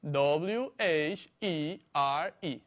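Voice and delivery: slow repeat for dictation; separate, evenly paced letters; spelling out. Shown as a demonstration. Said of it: "Te lo repito".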